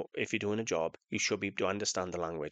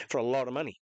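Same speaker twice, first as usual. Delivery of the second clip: rueful laugh; 3 semitones higher, 3 dB louder, faster than usual. Real, not acted. Laughing at own loss.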